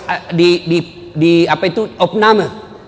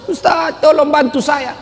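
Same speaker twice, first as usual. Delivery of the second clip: crying widow; 10 semitones higher, slower than usual. Retold or imitated.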